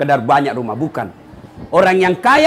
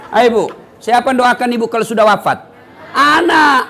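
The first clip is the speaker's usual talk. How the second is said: laughing call out; 4 semitones higher, 4 dB louder than usual. Real, not acted. Calls out to congregation.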